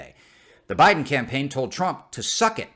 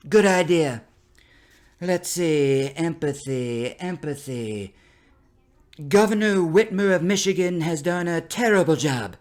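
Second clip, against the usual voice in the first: higher, louder Trump put-on voice; Trump impression; 5 semitones higher, 5 dB louder than usual. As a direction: sound out the word empathy like Trump. Trump voiced in imagined scene.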